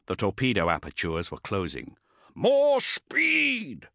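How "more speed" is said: very high, urgent roar. A narrator's reading. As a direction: yell the order into the radio. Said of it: "Cestus roared into his helmet vox".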